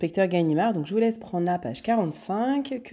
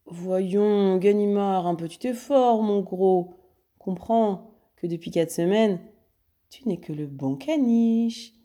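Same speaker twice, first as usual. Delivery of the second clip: teasing mockery; 3 semitones higher, slower than usual. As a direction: talk down to him playfully. Lupin se moque de Ganimard. (moquerie légère et lente)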